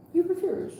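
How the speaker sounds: pitched well up, punched hard on you; emphatic you refuse. Acted. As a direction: call him out, pointing the finger. Reader calling out stubborn client.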